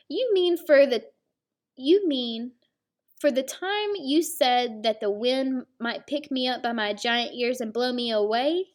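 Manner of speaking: a hint of an offended cat; indignant cat. Serval confronting Dog, a hint of indignation.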